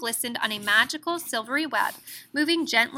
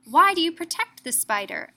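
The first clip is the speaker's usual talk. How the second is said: put-on higher, curious child voice; little boy asking; 7 semitones higher, 4 dB louder than usual. A narrator's reading. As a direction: ask like a puzzled small boy. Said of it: "asked the little boy".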